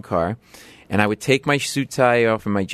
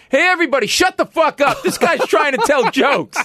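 put-on very high, loud drunken yell; 3 dB louder than usual. Drunk man yelling at the bar to shut up. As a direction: bellow at the whole bar. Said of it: "He turns back to the bar".

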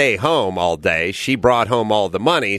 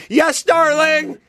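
much higher, slow, timid answer; fearful reply; slower than usual. Retold or imitated. Grandfather answers his wife fearfully, high and slow. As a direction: squeak it out like a cowed husband. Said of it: "with fear in his voice".

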